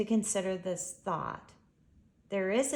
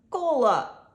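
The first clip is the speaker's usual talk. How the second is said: higher, louder startled call; surprised exclamation; 7 semitones higher, 10 dB louder than usual. A narrator's reading. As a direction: blurt her name, caught off guard. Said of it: "he exclaims in surprise".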